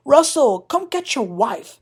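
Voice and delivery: mock yell across the room; retold scream. Recapper imitating Larsa yelling to Russell, mock scream. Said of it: "Larsa screams".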